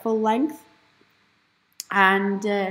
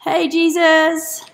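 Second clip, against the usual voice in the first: startled; 8 semitones higher, 9 dB louder, slower than usual. Real, not acted. Startled by someone.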